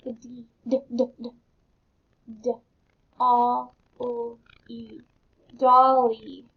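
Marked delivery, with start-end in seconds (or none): 2.4-6.5 letter by letter, then belly blended; teacher sounding out letters. Shown as a demonstration. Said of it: "let's sound these words".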